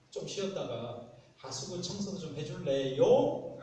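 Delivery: slow, sweet-talking request rising at the end; playfully coaxing question. Acted. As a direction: wheedle gently, lifting the last word. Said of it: "이렇게 좀 아향을 떨면서".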